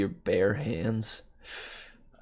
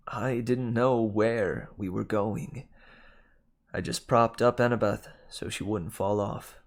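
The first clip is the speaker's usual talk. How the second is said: measured audiobook narration; story narration. A narrator's reading. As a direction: read the adventure aloud, clearly articulated. Reads the novel aloud.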